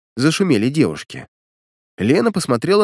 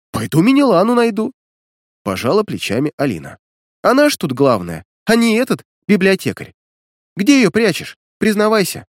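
put-on pushy girl; 7 semitones higher than usual. A narrator's reading. Alina demands where he hides her, higher. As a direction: demand he confess.

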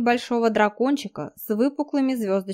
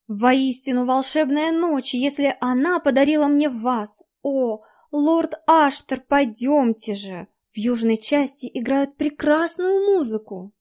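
squeaky chirping; 4 semitones higher than usual. Acted. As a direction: chirp it like a lovestruck girl. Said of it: "Беспрерывно щебеча".

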